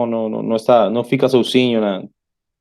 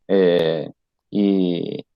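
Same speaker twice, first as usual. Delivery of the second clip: usual speaking voice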